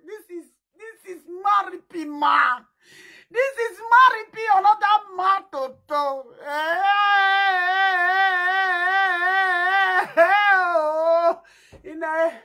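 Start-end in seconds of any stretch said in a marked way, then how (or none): 0.1-6.3 hammed-up wailing. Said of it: "I don't know how to cry". 6.4-11.4 hammed-up wailing. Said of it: "I don't know how to cry".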